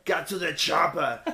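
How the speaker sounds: mock Austrian movie-star accent; Arnold Schwarzenegger. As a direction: quote the action hero in a heavy Austrian accent. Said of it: "Como Arnold Schwarzenegger".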